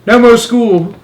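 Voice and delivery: put-on high, loud gleeful mouse-boy voice; grinning. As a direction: say it with a broad silly grin. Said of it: "grinning a broad and asinine mouse grin".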